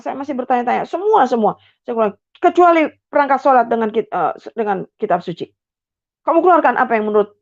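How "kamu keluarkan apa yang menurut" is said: angry father ordering. Retold or imitated. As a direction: rush the order angrily. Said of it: "ayah memerintah dengan marah". (perintah cepat dengan marah)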